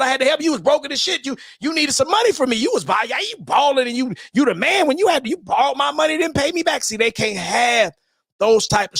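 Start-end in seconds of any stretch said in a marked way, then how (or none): 0.0-6.8 1 mock quote. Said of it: "with your truth talking about".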